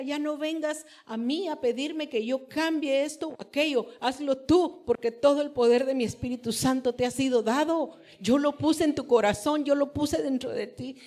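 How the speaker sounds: loud, insistent retelling of God's words; forceful divine command. Retold or imitated. Preacher quoting the Lord's charge to her, forceful.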